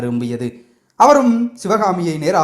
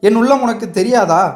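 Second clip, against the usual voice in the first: tender; 4 semitones higher than usual. Acted. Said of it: "அன்பு ததும்பிய குரலில்".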